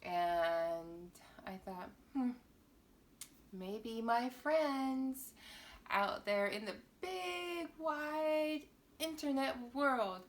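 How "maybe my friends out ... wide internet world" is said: playful build-up. Acted. Teasing build-up to the audience.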